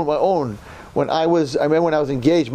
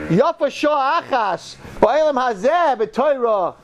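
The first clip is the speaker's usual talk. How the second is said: much higher, slow, yearning; longing soul; 11 semitones higher, slower than usual. Pretend. A waiting soul gazing at this world, high and yearning. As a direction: voice a soul pressed to the window, full of longing. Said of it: "And it's like".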